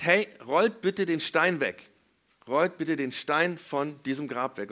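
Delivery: slow, emphatic instruction; nachgespielte Anweisung. Retold or imitated. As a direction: call out the order slowly. Jesus befiehlt den Männern. (langsame, nachdrückliche Aufforderung)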